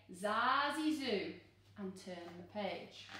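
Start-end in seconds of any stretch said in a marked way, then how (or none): 0.1-1.3 magic words. Shown as a demonstration. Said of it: "close your eyes and say".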